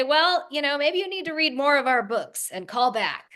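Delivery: lightly put-on New Jersey no-nonsense tone; mock New Jersey bluntness. Daughter imitating mother's blunt New Jersey phone manner. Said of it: "no nonsense".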